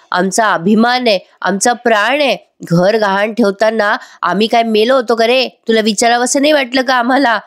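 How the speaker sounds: imitating an upset mother's reproach; angry scolding. Mother scolds son for mortgaging the house, mildly angry. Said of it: "चिडतात आणि म्हणतात".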